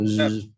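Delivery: sustained "zh" buzz; imitated buzzing sound. Shown as a demonstration. Teacher referring to the sound students request, long buzz. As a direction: draw the buzzing consonant out long.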